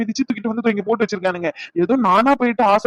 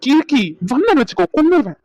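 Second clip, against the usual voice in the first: mock threat; 6 semitones higher, 3 dB louder than usual. Playful threat to crying girlfriend.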